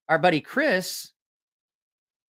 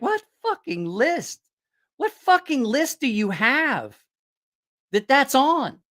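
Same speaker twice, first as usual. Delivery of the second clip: high, slow, incredulous disbelief; 9 semitones higher, slower than usual. Retold or imitated. Disbelieving friend confronting Chris about his list. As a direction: drag it out in outrage.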